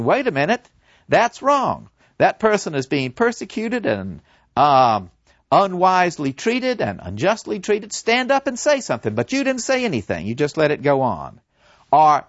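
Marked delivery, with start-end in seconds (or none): 0.0-9.1 a lightly raised voice of conscience, urging. Acted. Conscience urging you to speak up, mildly raised. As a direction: nudge them: this is wrong. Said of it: "conscience ... has been saying".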